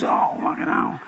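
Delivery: whispered curse; spider's dismay. Retold or imitated. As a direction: hiss it in horror. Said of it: "he goes".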